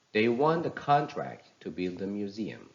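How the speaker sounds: "contract" stressed on CON, falling after; noun stress. Shown as a demonstration. Teacher reads example sentence, "contract" stressed on CON. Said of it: "the first part".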